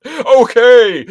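high, loud okay; yelped surrender. Retold or imitated. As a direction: give up with a yelp. Victim giving in.

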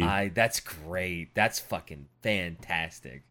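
low, slow brooding mutter; brooding fake-deep mutter. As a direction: mutter it like a moody edgelord. Mock-brooding reaction to edgy knight.

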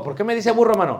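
a touch of a huffy congregant; offended brother. Retold or imitated. Imitating an offended listener protesting to the preacher, mildly angry. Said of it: "se pone agresivo".

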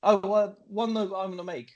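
normal talking voice

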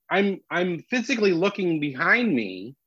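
ordinary talk

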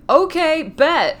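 casual Phantom voice. Retold or imitated. Phantom's casual reply, quoted.

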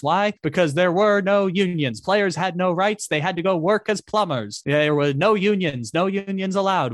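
lightly voiced vintage radio announcer; old-timey broadcaster. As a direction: call it like a fifties radio man. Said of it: "I can do old-timey broadcaster".

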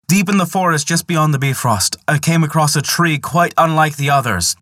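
breathless storyteller luring her in; excited Loki. Acted. Loki excitedly spinning a lie.

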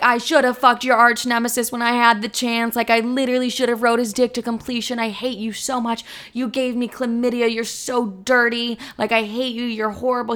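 hammed-up hallway argument; mock screaming match. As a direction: rant at a boyfriend in mock fury. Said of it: "we're both screaming in the hallway".

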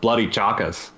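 low, half-hearted Australian imitation; attempted Australian accent. Shown as a demonstration. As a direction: repeat it in a lame Aussie accent. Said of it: "give us your Australian accent".

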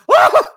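very high, loud shocked gasp; imitated shocked crowd yelp.

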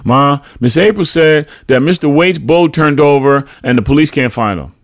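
put-on high, loud little boy's voice; child relaying news. A narrator's reading. Boy passes neighbor's news to his mother, childlike.

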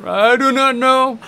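slow, high mock African accent; fake African accent. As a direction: draw it out in a bad African accent. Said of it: "my horrible African accent".

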